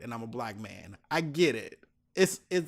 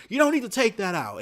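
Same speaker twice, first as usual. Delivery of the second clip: higher, louder mock scold from the officer; mock scolding snap; 9 semitones higher, 6 dB louder than usual. TSA officer scolds the traveller, mock loud rebuke. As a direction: throw a condescending correction at him.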